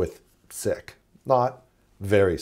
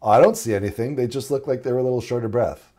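puzzled students; 2 semitones higher, 5 dB louder than usual. Acted. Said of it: "the students, they're going".

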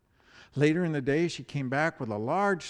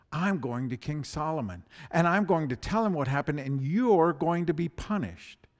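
a bereaved mother otter threatening the deer mouse; angry otter; 3 semitones higher, 4 dB louder than usual. Acted. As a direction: vow to take it to the king.

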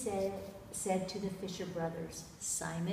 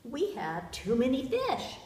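higher, louder storybook cry; calling out; 5 semitones higher, 5 dB louder than usual. A narrator's reading. Overloaded fishermen call to their friends, calling out. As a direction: call over to another boat, acted. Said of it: "they called to their friends".

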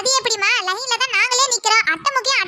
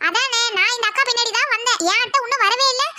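higher, complaining voice; agreeing woman in queue; 3 semitones higher than usual. Acted. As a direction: back her up with a grumble.

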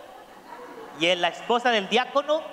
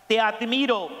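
father's shout; 3 semitones higher than usual. Acted. Father showing his son the echo, calling out. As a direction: proclaim it across the valley. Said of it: "el padre grita a la montaña".

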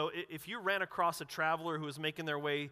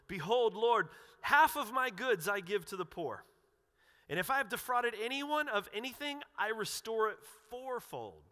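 earnest pledge; 5 semitones higher, 3 dB louder than usual. Retold or imitated. Zacchaeus pledging before the Lord.

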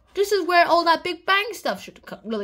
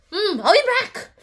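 mock ominous; 6 semitones higher, 5 dB louder than usual. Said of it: "Columbus threat".

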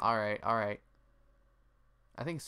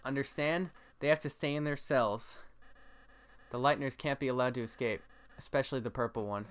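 game guard voice; 3 semitones higher than usual. Acted. Guard figure in game dialogue.

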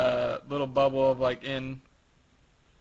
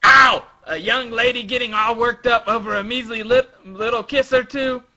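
Frankie teasing; 9 semitones higher, 9 dB louder than usual. Acted. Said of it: "Frankie says".

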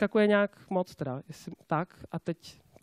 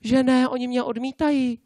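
higher-pitched mock whining; complaining salesmen; 4 semitones higher than usual. Salesmen coming to the boss about rejection, mock whine. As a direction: imitate a wounded salesman, pitched up. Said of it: "obchodníci ke mně chodí a říkají".

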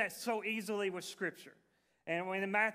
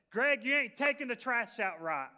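raised, higher call from across the house; retold shout; 4 semitones higher, 5 dB louder than usual. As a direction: call out to him from the other side of the house. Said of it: "was shouting from the other side of the house".

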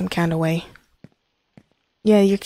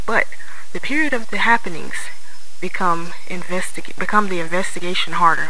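announcer voice; 4 dB louder than usual. Acted. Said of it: "in an announcer's voice".

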